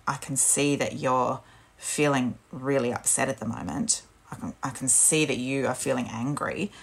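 soft, gentle validating parent voice; calmly name the child's feeling; soothing validation. Shown as a demonstration.

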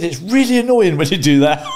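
high, loud mock complaint; retold exasperation. Wife telling husband he annoys her, exasperated. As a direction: imitate a fed-up wife at full volume. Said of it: "You're so annoying".

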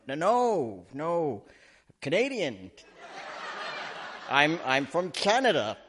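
mock-panicked hasty denial; retold panic. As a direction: blurt out a cover story, hammed up. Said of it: "And I start to panic".

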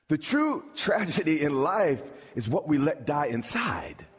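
full-force preacher shout; thundering sermon line; preaching shout. Real, not acted. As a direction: drive the point home with a shout. Preaching climax.

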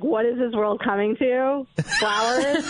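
scoffing, half laughing at the complaint; mocking disbelief. Real, not acted. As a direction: laugh off her outrage.

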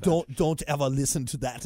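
put-on lightly accented German filmmaker's warning; Herzog. Host retelling filmmaker's warning, light Herzog impression. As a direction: warn with a hint of German accent. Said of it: "and he takes off the headphones and goes".

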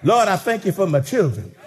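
a hint of grandma praying; imitating Grandma. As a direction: pray like an old grandmother. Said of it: "like Grandma used to say".

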